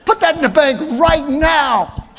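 high, loud mock outburst at his wife; mock outraged yell. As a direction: play the husband losing it over hidden money, hammed up. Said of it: "that would have been my natural response".

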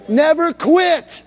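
high, loud, slow never quit; drawn-out rallying cry; loud call and response. Shown as a demonstration. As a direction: lead congregation to shout it back. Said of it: "Say that with me".

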